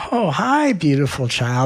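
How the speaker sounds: put-on high swooping hello to a child; gushing greeting. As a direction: coo a sweet, high-pitched hello. You greeting the inner child.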